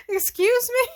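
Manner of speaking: a startled, squeaky "excuse me"; mock shocked. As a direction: play it like you can't believe your ears. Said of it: "And it's like".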